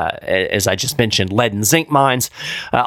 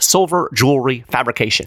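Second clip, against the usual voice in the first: quick tongue-twister. Shown as a demonstration. Host repeating a tricky phrase for fun, slightly fast. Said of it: "Say that three times fast".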